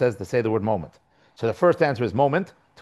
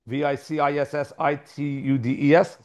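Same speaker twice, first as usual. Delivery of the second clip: spelled letter by letter; spelling out. Shown as a demonstration. Teacher stuck on a hard word while reading, spelling it out. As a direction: give each letter separately, evenly.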